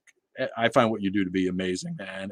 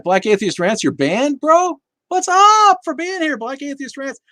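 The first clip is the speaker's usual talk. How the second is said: excited greeting; 7 dB louder than usual. Real, not acted. Greeting a banned viewer.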